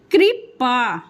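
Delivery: कृपा slowly, split as कृ, पा; slow syllable demo. Shown as a demonstration. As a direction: draw out each syllable of कृपा. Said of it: "उसको slow से बोलेंगे आप". (कृपा धीरे-धीरे, अक्षर तोड़कर)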